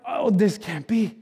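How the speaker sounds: drawn-out, slow, stunned; slow disbelief. Pretend. Pastor voicing disbelief, slow and stunned. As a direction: let it sink in slowly, unbelieving.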